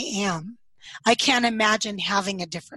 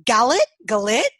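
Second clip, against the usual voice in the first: loud roll-call voice; teacher calling roll; 6 dB louder than usual. Retold or imitated. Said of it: "imagine a teacher looking up from her roll call".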